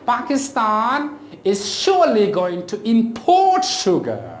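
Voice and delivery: "import" stressed on PORT; second-syllable stress. Shown as a demonstration. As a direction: example sentence with verb "import" as im-PORT. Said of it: "give stress to the second syllable".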